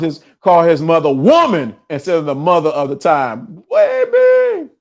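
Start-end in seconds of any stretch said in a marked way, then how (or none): 3.7-4.7 high falsetto, drawn out; sing-song falsetto baby. Pretend. Playful aside to the audience.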